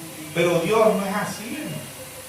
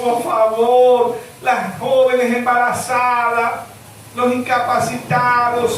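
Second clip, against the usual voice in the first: pleading prayer; 3 semitones higher, slower than usual. Acted. Preacher voicing pleading prayer.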